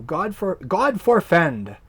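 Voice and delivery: slow, drawn-out God forfend; old-fashioned phrase. Shown as a demonstration. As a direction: savour God forfend slowly. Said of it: "nice old English word".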